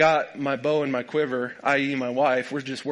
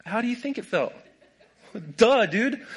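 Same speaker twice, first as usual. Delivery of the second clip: nephew's retort; 7 semitones higher than usual. Retold or imitated. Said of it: "he's like".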